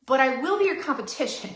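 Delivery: mock-threaten a rival with a grin; feisty. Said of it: "I'm a little feisty".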